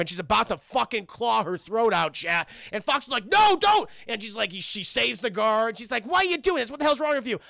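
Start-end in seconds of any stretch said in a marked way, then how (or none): 3.2-3.9 high, loud, urgent cry; alarmed shout. Retold or imitated. Fox stops Hyena killing the guard, alarmed shout. 6.0-7.4 indignant retort. Retold or imitated. Hyena challenges Fox for interfering.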